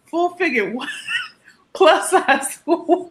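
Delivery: high, drawn-out mock puzzlement; baffled producers. Producers react to her pitch, mock-baffled and slow. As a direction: imitate them puzzling slowly over odd words. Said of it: "They looked at me like".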